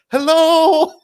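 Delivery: high, wobbly laughing hello; Klink's warble. Retold or imitated. Mocking Klink's accent, a high, warbling hello. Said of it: "He has a warble in his voice".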